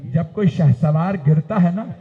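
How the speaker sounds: normal talking voice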